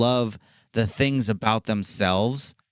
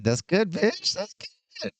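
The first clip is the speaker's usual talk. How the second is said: excited praise. Real, not acted. Squealing praise again.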